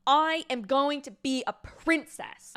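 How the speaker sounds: miffed princess-to-be, spelling it out; acted indignation. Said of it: "She's pissed".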